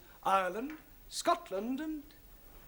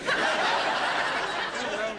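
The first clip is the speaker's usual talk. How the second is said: laughing no; 6 dB louder than usual. Real, not acted. Teacher laughing at bad repetition.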